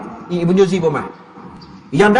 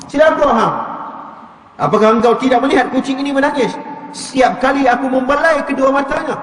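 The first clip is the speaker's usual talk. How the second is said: angry retort; 3 semitones higher than usual. Retold or imitated. Preacher voicing the angry cat owner cursing his friend. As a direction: spit out the curse with rising anger. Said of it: "dia marah pula kawan tu".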